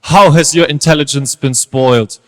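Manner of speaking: deep, deliberate interrogation; concerned teacher. Acted. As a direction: press your pupil for a confession, keeping control. Upset teachers question pupil.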